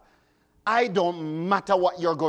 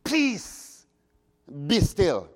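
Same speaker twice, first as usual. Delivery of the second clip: commanding Jesus; 2 semitones lower, much slower than usual. Acted. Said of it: "and he said".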